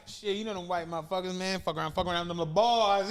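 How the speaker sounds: a rapper's voice. Retold or imitated. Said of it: "he sounded just like a rapper".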